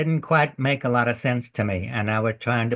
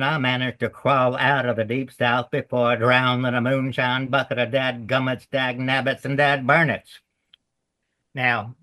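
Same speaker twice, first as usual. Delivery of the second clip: put-on Southern accent. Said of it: "let me give you just a little excerpt from the, from the beginning of the play".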